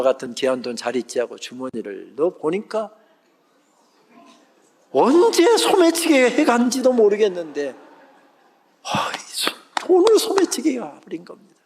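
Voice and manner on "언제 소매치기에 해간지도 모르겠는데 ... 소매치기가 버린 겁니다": pitched way up in disbelief at the loss; shocked dismay. Retold or imitated. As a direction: voice jumps high, stunned. Discovers money stolen.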